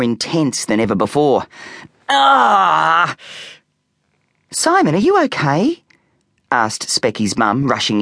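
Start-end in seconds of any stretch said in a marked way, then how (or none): 2.1-3.2 sudden loud yelp of pain, higher; pained cry. 4.5-5.8 much higher, anxious mother's voice; a mum calling out in alarm; worried mum.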